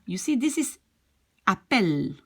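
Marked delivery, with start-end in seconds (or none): 1.5-2.2 "appelle" with the stress on -pelle; stress before the L. Shown as a demonstration. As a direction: lean on the vowel before the L in "appelle". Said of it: "when the accent is before".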